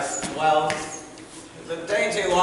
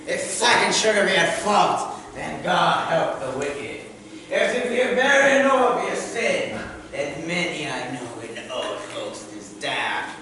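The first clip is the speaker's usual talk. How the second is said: Shakespearean recital. Acted. Reciting Falstaff.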